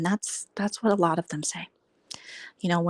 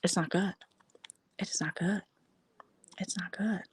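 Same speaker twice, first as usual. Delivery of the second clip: each "It's not good" softer, down to a whisper; fading repeat; 10 dB quieter than usual. Real, not acted. Vlogger repeating "It's not good", fading to a whisper. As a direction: let it trail off to nothing.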